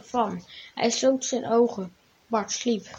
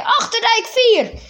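high, loud and slow, spelling out the address; shouting; 10 semitones higher, 5 dB louder than usual. A narrator's reading. Farmhand gives the fire brigade the address, slow loud shout. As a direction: call out the location, slow and loud. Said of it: "riep hij".

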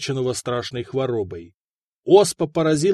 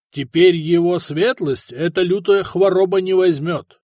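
solemn, self-important bishop; pompous; 4 semitones higher, 5 dB louder than usual. Acted. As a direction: speak with weighty importance. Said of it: "важно сказал епископ".

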